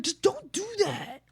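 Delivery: put-on kid coworker. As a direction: whine at the grown-up. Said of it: "they'll be like".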